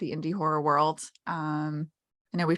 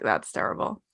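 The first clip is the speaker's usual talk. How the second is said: imitating a friend; 11 semitones lower, 5 dB quieter than usual. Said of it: "he was just like".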